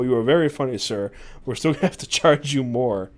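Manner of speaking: lightly put-on English manager; amused but insistent, mild British accent. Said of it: "The Englishman laughed and said".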